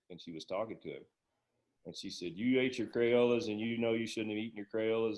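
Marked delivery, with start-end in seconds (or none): 2.4-5.2 retold scolding. Principal waving the paddle at a kid who ate crayons, mock scolding. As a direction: imitate a principal's scolding, first words louder.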